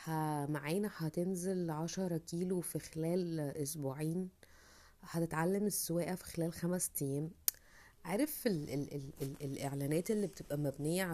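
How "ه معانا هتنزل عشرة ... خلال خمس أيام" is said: mock ad pitch. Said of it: "الكورس اللي بيطلع قدامك يقولك".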